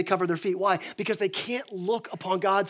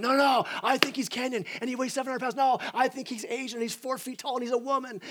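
mock parking lot argument; 5 semitones higher than usual. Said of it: "having this argument".

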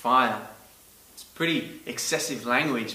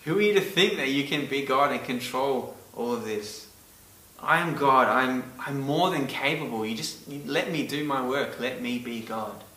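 voicing God to Job. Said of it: "God thundering down to Job".

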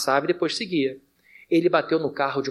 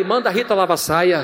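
a hint of tongues, blurted louder in panic; mock speaking in tongues; 4 dB louder, faster than usual. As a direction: mimic a frightened man babbling in tongues. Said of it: "aí eu falei em línguas".

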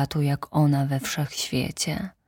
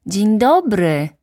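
little prince; 5 semitones higher, 6 dB louder, slower than usual. Acted. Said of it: "powiedział na wszelki wypadek".

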